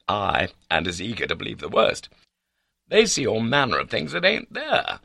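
high-pitched, exasperated tirade; white with anger. A narrator's reading. Accused baronet explaining himself to his confidant, angry. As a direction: rant in outraged indignation. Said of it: "white with anger".

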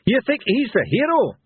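put-on very high, cackling old madman; Mad Hamish. A narrator's reading. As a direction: cackle the question in scorn. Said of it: "cackled Mad Hamish".

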